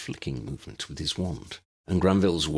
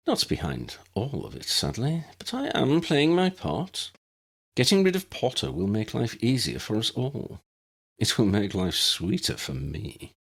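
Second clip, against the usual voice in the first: lightly voiced gloating villain, rising high; a touch of smug menace; 6 semitones higher than usual. Lucius telling Ron his part in the plot, gloating.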